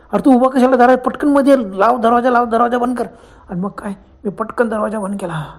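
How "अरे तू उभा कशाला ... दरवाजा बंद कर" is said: higher, pressing order; retold panicky command; acted urgency. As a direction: urge him to shut the door at once. Friend urgently orders door shut.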